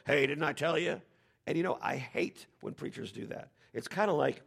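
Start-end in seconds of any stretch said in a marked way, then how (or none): 0.1-1.0 mock scolding, lightly raised; a touch of reproach. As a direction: chide her as if she should know. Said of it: "Jesus is scolding her, going".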